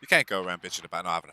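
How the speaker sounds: put-on British telling-off; mock British accent. Streamer tells fatherless character to cope, mock British accent. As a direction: lecture in a dodgy British accent. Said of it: "What was that British accent".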